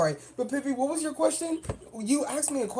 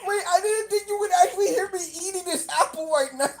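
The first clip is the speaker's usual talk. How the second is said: laughing disbelief; 5 semitones higher, faster than usual. Real, not acted.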